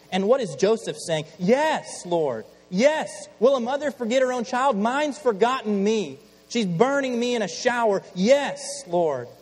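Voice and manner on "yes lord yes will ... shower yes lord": high, loud wounded yes; pained shout. Acted. Joseph answers God about his mother, loud pained cry. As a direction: shout the answer like a hurt boy.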